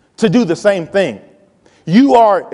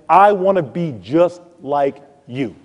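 admiring; slower than usual. Retold or imitated. Voicing an admiring freshman to seniors.

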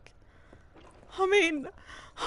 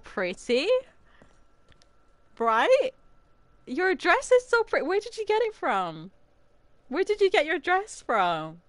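fake sweetness. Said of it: "make out that, like, we're best friends".

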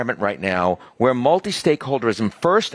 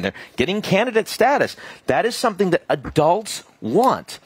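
passionate; 6 semitones higher than usual. Real, not acted. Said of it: "you're so passionate".

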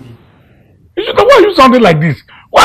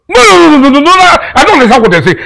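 rapid, raised stammer of no; panicked protest; 5 semitones higher, 3 dB louder than usual. Acted. Uncle hearing the money plan failed, panicked protest. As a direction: trip over the words in alarm.

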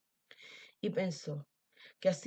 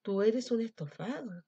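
wolf's protest; 4 semitones higher than usual. Acted. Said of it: "gritó el lobo".

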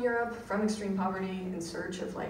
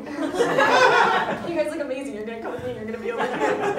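chirpy American waiter; 6 semitones higher, 10 dB louder than usual. Retold or imitated. Over-eager American server greeting the audience, high and gushing. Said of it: "I would be like".

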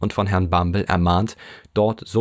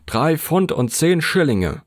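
higher, slow, each word set firmly; stubborn official, no give; unbending repeat; 9 semitones higher than usual. A narrator's reading. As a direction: repeat Drei Pfund und zehn Schillinge slowly, higher and immovable. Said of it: "wiederholte Herr Limpkins unbeugsam".

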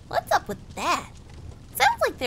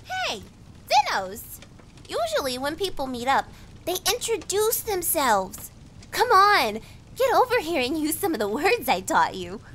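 shrill gnome voice; 3 semitones higher than usual. Acted. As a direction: pitch it up into a bossy, shrill gnome. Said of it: "her voice shrill, as gnomes' voices should be".

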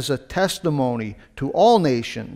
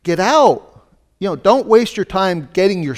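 urgent command; 4 semitones higher, 5 dB louder than usual. Retold or imitated. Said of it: "Jesus gave a warning".

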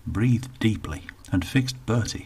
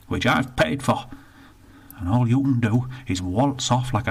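put-on indignant old northerner, rushed in the middle; grumpy old Bertie; 3 semitones higher than usual. Bertie complains to the attendant, indignant grumble. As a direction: grumble about the lost pound.

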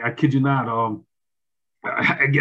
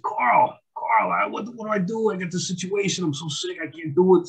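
higher-pitched retold plea for help; mild panicked plea; 6 semitones higher than usual. Caller to Carl about being stuck, mildly panicked. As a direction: replay a worried appeal, pitched up.

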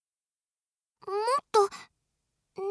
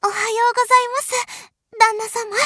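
bright loud wake-up; 7 dB louder than usual. Acted. Cheerful wake-up call.

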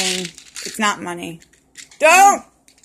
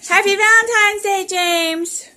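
bright high greeting; cheerful welcome home; excited; 9 semitones higher, 5 dB louder than usual. Real, not acted. Mom greets son on arrival.

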